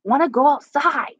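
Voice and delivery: high, sassy put-on pet voice; grumpy cat voice. Owner voices her cat refusing to be touched, high grumpy voice. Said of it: "He's like".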